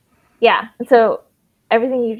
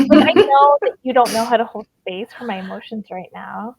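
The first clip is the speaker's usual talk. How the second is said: laughing; 2 semitones higher, 6 dB louder than usual. Acted. Laughing while voicing an imagined reply.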